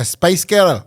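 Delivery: light Glasgow accent; Scottish accent. Shown as a demonstration. Co-host recalling the accent trick, Scottish accent. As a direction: try the phrase in a Scottish accent. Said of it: "What's the Scottish thing?".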